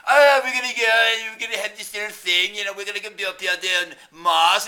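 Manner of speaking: loud, high mock-British boasting; British impression. Mocking British space team bragging about Mars, loud British impression. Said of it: "there's this stupid British".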